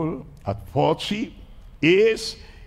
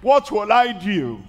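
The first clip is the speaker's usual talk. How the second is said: anxious prayer; 5 semitones higher, 3 dB louder than usual. Retold or imitated. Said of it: "She went to pray".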